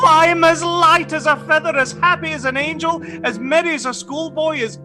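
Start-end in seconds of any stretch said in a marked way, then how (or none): 0.1-3.0 elated, high-pitched rush of joy; light-headed happiness after laughing; giddy delight. Acted. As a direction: bubble over with relief. Scrooge giddy with relief.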